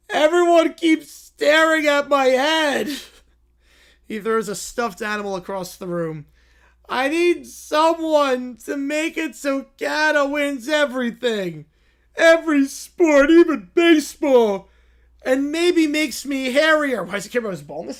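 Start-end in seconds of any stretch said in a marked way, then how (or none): 0.1-2.9 whiny Caillou. Acted. Caillou complaining. 6.9-17.0 whiny Caillou. Acted. Caillou demanding.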